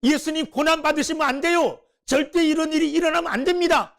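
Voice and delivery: 따지듯이 항의하며; arguing, protesting. Retold or imitated. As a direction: press the point like a disciple arguing. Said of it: "막 따지듯이 얘기했다".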